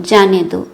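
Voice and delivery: जाने दो as its own falling phrase; pause after मत. Shown as a demonstration. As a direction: let जाने दो drop, set apart after the comma. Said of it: "पे कोमा लगाकर कहते हैं".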